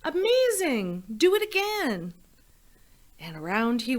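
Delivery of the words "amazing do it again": shouted. Acted. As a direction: egg him on with big excitement. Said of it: "but Elizabeth shouted".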